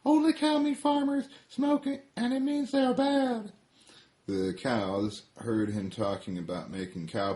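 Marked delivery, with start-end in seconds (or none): 0.0-3.5 Smoking Cigarette. Acted. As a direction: squeak it out like a tiny hothead cigarette. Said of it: "Smoking Cigarette tells the cows".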